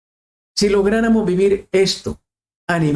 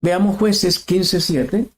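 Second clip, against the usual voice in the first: very slow, drawn-out reference call; slow announcement; much slower than usual. Shown as a demonstration. Preacher to congregation, announcing the Bible passage slowly. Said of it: "announcing scripture reference".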